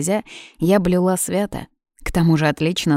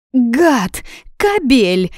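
high, loud furious yell; screaming; 7 semitones higher, 6 dB louder, much slower than usual. Acted. Jealous blonde screaming at the brother in the park. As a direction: scream it at the cheater. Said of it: "заорала она".

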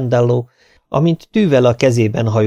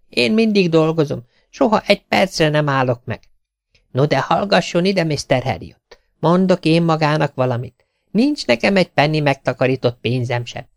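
lightly voiced tailor, higher, moaning about work; complaining tailor; 4 semitones higher than usual.

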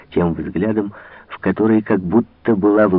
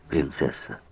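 мягко и тише, с падением; нежно обратиться; 5 semitones lower, 7 dB quieter than usual. A narrator's reading. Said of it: "мягко отвечал граф". (граф принцессе, мягко и тише)

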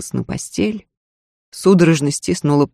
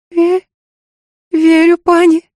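high, loud frightened stammer; stammering fear; 13 semitones higher, 5 dB louder than usual. Acted. Maid answers her threatening lady, stammering in terror.

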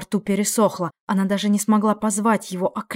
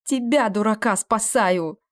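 tearful shout; slower than usual. Acted. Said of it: "Со слезами в голосе крикнула".

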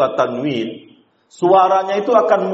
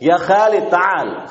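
1 calling Khalid; 3 semitones higher, slower than usual. Shown as a demonstration. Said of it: "nama orang Khalid".

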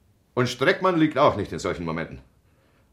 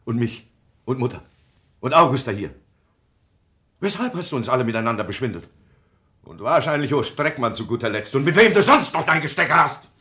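louder, building accusation; scolding that swells to a louder shout; rising anger; 2 semitones higher, 6 dB louder than usual. Acted. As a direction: build from reproach to outburst. Angry accusation of lying.

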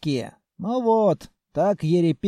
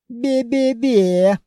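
mocking; 5 semitones higher, 5 dB louder, much slower than usual. Captain mocks groom.

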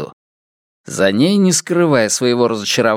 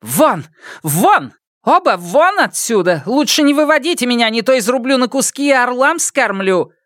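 much higher, fast furious yell; 12 semitones higher than usual. Acted. Geng throwing both out, high fast yell. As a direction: scream them out of the room. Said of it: "заорала".

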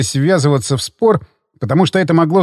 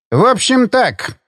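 threatening; 6 semitones higher, slower than usual. A narrator's reading. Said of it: "угрожающе подытожил Абрамов".

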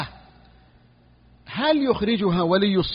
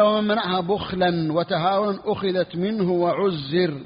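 slow text reading; slower than usual. Shown as a demonstration. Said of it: "قال".

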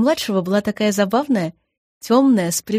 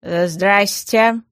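slow, awkward hello; embarrassed; much slower than usual. A narrator's reading. Gas caught unawares by the room's owner, embarrassed. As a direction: drag out a sheepish greeting. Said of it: "смущённо произнёс Газ".

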